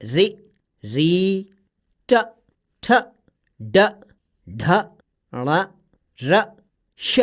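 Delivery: रि, री, ट, ठ, ड, ढ, ण, र, श each said alone and crisp; retroflex letter drill. Shown as a demonstration. Parrot modelling the retroflex sounds for the child. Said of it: "इसका उच्चारण है".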